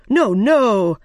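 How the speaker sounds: loud, urgent protest; objecting Rabbit. A narrator's reading. White Rabbit correcting the Queen in court, loud objection. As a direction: cut in loudly to object.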